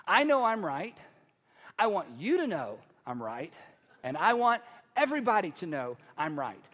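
emphatic mock certainty, punched in bursts; self-righteous insistence. Preacher voicing a person set on being right, insistent. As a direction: insist you are right, pausing between declarations.

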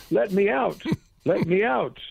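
high-pitched imitation of a parrot's cry; chilling cries. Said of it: "some chilling cries of".

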